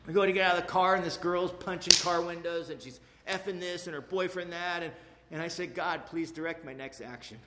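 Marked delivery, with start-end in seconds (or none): 5.7-7.4 quiet prayer. Retold or imitated.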